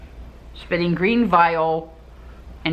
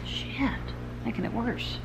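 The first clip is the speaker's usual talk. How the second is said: muttering; 5 semitones higher, 12 dB quieter than usual. Real, not acted. Muttering to self off script.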